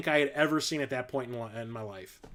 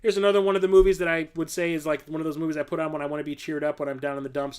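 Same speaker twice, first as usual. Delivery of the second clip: ordinary talk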